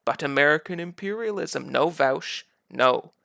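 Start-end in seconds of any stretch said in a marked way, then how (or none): 1.7-3.1 firm scolding no. Real, not acted. Host scolding Vaush, loud and firm.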